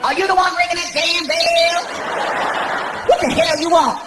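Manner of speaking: angry clerk. Retold or imitated. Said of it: "this lady came out".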